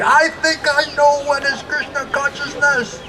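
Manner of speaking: high-pitched imitation of an angry outburst; mock yelling. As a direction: yell it high without real volume. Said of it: "He started yelling at me".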